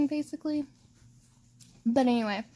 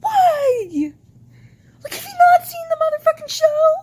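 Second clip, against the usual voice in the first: much higher, loud, tearful shouting; overdramatic crying rant; 12 semitones higher, 11 dB louder than usual. Real, not acted. Fan ranting at viewers about a bad ship, tearful shout. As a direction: wail it in outraged disbelief. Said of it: "I'm being overdramatic probably".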